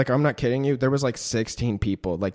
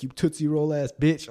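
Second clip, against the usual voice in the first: mock taunt; 4 semitones higher than usual. Imitates robbers' repeated taunt.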